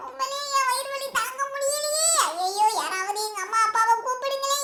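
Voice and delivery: mildly whining pretend pain; faked stomach ache. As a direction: plead for help with put-on suffering. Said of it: "அப்படியே நடிச்சிட வேண்டியதுதான்". (வலி போல லேசாக நடித்துப் புலம்பல்)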